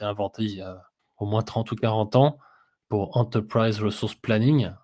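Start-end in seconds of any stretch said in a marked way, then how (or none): 3.2-4.7 English words with a French accent; accent français en anglais. Real, not acted. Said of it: "désolé pour mon accent anglais". (anglais prononcé avec l'accent français)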